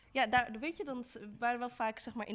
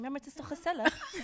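bright, cheerful put-on voice with a laugh; mock white Dutch person; 5 semitones higher than usual. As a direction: play the cheery Dutch cliché. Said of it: "white people say this all the time".

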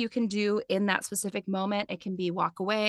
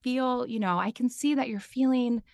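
put-on gentle toddler talk; 3 semitones higher than usual. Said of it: "very much like you would with a toddler".

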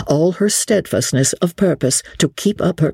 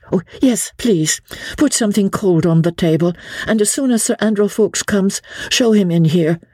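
higher, composed noble lady; lady Marguerite; 8 semitones higher than usual. Acted. Lady Blakeney instructs the innkeeper, poised and earnest.

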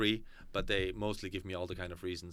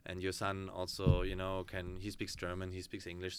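low, soft, reluctant agreement; hesitant excuse; 4 semitones lower, 6 dB quieter than usual. Retold or imitated. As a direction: voice a parent quietly making excuses. Acting out a parent's hesitant reply.

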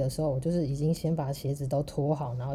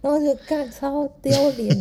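cringing exclamation; 9 semitones higher, 6 dB louder than usual. Real, not acted. Telling cohost about the wrong bank, mortified high wail. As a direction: wail it like you want to sink into the floor.

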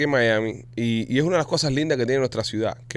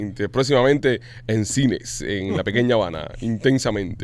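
movie trailer voice; 4 semitones lower, slower than usual. Pretend. Mock movie announcement.

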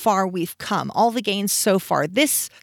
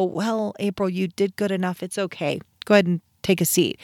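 mock placating. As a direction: lightly mimic a condescending consoler. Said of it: "It's not just to go".

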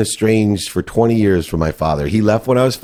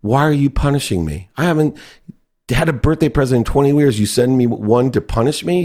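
higher, heated retold accusation; furious; 6 semitones higher than usual. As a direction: confront dad on the phone, pitch raised. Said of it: "I was so furious".

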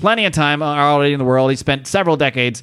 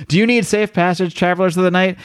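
higher, lightly theatrical god voice; Anubis voice; 5 semitones higher than usual. Retold or imitated. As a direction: intone it like a mythic ferryman. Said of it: "And it is Anubis".

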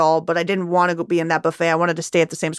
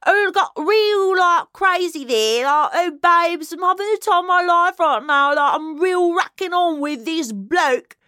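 put-on Essex accent; 9 semitones higher than usual. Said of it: "I'm obsessed with the Essex accent right now".

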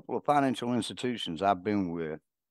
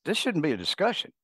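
exasperated; 8 semitones higher than usual. Retold or imitated. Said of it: "And I'm like".

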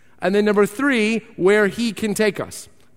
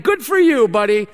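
dismissive passerby; 3 dB louder than usual. Retold or imitated. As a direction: brush off the street preacher and keep walking. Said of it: "somebody saying".

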